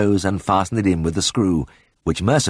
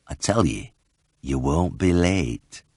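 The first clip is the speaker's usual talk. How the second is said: soothing smile; 3 semitones lower, slower than usual. A narrator's reading. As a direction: gently reassure him. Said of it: "creased into a soothing smile".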